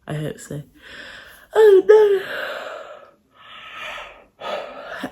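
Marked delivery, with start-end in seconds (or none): 1.5-5.1 startled oh no. Real, not acted. Sudden dismay mid vlog.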